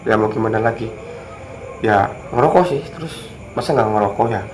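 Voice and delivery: speaking while smoking; cigarette in mouth. Real, not acted. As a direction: cigarette between the lips. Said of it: "Ini maaf saya sambil ngerokok ya". (bicara sambil merokok)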